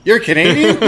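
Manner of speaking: high, loud mock astonishment; mock surprise. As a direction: gasp it out in fake shock. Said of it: "a rapper goes".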